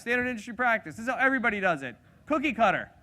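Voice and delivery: rattled off fast, brushing it aside; rushed dismissive. Shown as a demonstration. Mocking standard practice for the fast group, rattled off fast. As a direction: hurry through it impatiently. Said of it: "How about you guys?".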